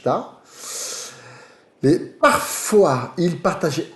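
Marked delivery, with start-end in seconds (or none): 1.8-3.1 parfois drawn out slowly; slow French parfois. Shown as a demonstration. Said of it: "Repara bem".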